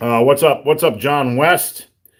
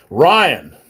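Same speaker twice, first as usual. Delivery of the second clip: a sudden louder call of the name; blurting a viewer's name louder; 3 semitones higher, 5 dB louder than usual. Real, not acted. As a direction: call out Ryan across the room. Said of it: "that was kinda loud".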